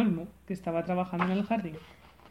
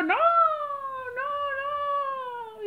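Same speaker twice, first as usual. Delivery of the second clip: much higher, stubborn shout; roaring no; much slower than usual. Acted. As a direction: refuse like a stubborn monster. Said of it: "Rugió el monstruo". (rugido terco)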